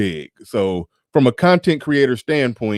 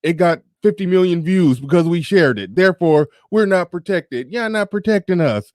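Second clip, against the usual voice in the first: high-pitched mock plea of victimhood; mocking complaint; 8 semitones higher than usual. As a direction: imitate aggrieved complainers in a higher voice. Mocking women sharing viral videos.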